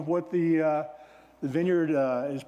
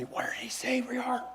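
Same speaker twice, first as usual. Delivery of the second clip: hushed, voiceless aside to a neighbor; mock whisper; 6 semitones higher, 6 dB quieter than usual. Churchgoer asking a neighbor where we are, whispered. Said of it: "you don't need to whisper".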